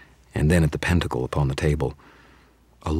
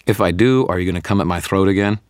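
louder, fast wary question; wary challenge; 5 semitones higher, 4 dB louder than usual. Acted. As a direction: push back nervously. Wizard bargains with vampire.

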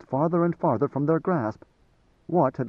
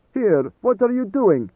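higher and louder, slow, querulous challenge; querulous demand; 8 semitones higher, 5 dB louder, slower than usual. A narrator's reading. Garoon startled as Idaho opens his robe, querulous demand. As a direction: drag out an indignant demand. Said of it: "Garoon demanded".

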